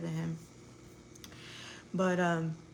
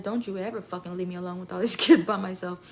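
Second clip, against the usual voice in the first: retold yell; 6 dB louder, faster than usual. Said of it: "I yelled at him".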